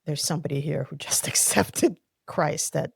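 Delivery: whispering, voice breaking into a small laugh; hushed, awed whisper of a pastor; retold whisper. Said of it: "He actually stops and goes".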